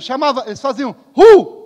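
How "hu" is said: short, loud Spartan "hu!"; loud demonstrated battle cry; war cry. Shown as a demonstration. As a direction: bark out a high warrior shout. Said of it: "eles tinham um grito".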